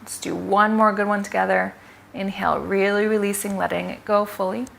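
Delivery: soft, unhurried breathing cues with long pauses; guided breathing. Real, not acted. Coach guiding expectant mothers through pelvic floor breaths, soft guided breathing. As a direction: quietly lead them through each breath, leaving room to breathe.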